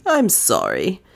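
lightly voiced apologetic man; apologetic young man. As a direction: say sorry as Fleming. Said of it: "made a gesture of apology".

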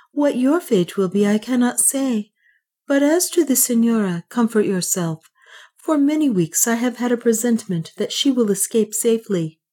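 a calm, resigned friend; Francisco. Acted. Francisco to Leonard, resigned but calm about death. Francisco speaks, voiced higher.

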